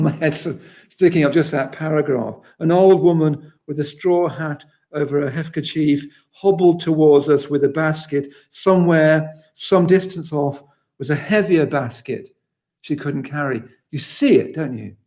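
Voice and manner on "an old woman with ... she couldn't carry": poetry reading. Acted. Rereads the passage aloud.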